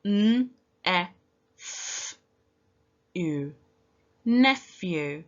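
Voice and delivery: each sound of nephew said apart, then blended; sounding out letters. Shown as a demonstration. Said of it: "Now let's use our sounds".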